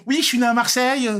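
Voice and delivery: high, loud mocking quote of himself; mock announcement. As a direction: proclaim it to all in a put-on voice. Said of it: "tu peux pas dire à tout le monde".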